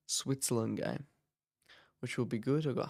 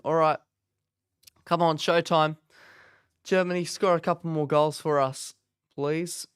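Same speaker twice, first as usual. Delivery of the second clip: excited; 3 semitones higher, 5 dB louder than usual. Real, not acted. Cheering on Germany before kickoff.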